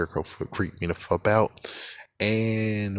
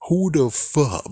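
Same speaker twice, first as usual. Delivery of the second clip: much higher and louder, incredulous; outraged shout; 8 semitones higher, 4 dB louder, much slower than usual. Real, not acted. Yelling at whoever lets Slappy stare at them, outraged. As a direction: demand an answer in disbelief.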